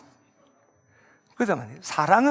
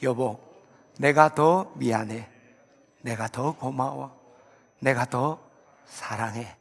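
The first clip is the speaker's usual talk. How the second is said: 다정하게 읽기; 3 semitones lower, slower than usual. Shown as a demonstration. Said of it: "이걸 읽어야 돼".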